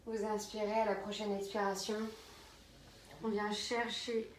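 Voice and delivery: slow pose cues with long pauses; yoga guidance. Real, not acted. Yoga teacher guiding students into child's pose, slow calm instruction. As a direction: lead the movement gently, phrase by phrase.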